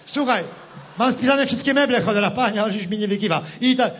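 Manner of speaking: lightly voiced rustic politician, rally style; a farmer-politician addressing the crowd, hammy; Lepper impression. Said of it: "jestem lepier". (parodia Leppera, lekko zagrana)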